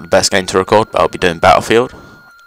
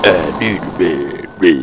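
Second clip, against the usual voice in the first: Duke voice impression; 3 semitones lower, slower than usual. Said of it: "gotta love the Duke voice".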